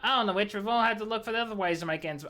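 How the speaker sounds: lightly gruff siren voice; a hint of a gruff old seafarer telling tales; put-on character voice. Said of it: "I'm getting sick of this voice".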